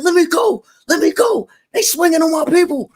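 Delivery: very loud, high imitation of a man held back; mock enraged shouting. Imitating the rapper held back by security, mock enraged shouting. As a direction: yell as if fighting off security.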